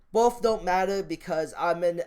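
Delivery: ordinary talk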